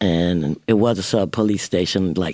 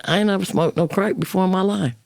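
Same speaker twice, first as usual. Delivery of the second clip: pitched way up, offended protest; indignant denial; 9 semitones higher than usual. Retold or imitated. To the police officer, protesting her innocence, pitched high and indignant. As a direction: shoot the pitch up in disbelief. Denying the officer's crack accusation.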